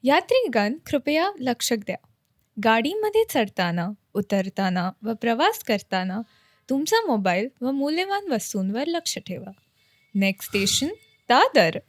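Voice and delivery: Mumbai local train announcer voice; train station announcement. Shown as a demonstration. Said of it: "Do it".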